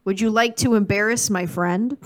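polite Wisconsin version of a threat; Wisconsin accent. Acted. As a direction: put on a mild Wisconsin accent. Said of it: "how it would sound if he was in Wisconsin".

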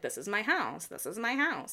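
put-on a quick, half-teasing take on Ariana's accent, repeating the line. Ariana insisting to Tom it's her house, in a mild imitation of her accent. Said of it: "Sorry, I'm just doing her accent".

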